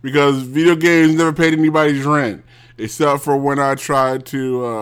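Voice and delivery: worked-up, insistent tirade; irritated rant. Real, not acted. Angry rant dismissing video games.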